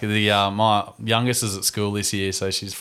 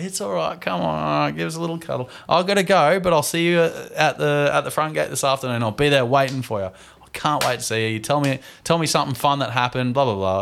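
reassuring dad; 4 semitones higher than usual. Retold or imitated. Dad comforting a crying daughter before leaving, gentle coaxing. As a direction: soothe a clingy five-year-old at the door. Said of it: "I did all the dad stuff".

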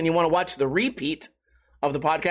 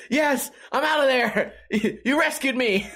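voicing the happy dog; 6 semitones higher than usual. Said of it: "he's just like".

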